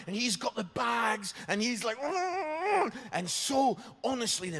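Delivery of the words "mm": flustered noise. Retold or imitated. Flustered man with bags, imitated.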